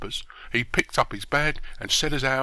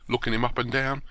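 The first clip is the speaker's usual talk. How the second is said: ordinary delivery, nothing marked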